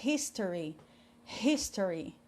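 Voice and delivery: "history" opening on a breathed H; H aspirado. Shown as a demonstration. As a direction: start "history" with a puff of air. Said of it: "H em inglês tem som de R". ("history" com H soando como R brasileiro)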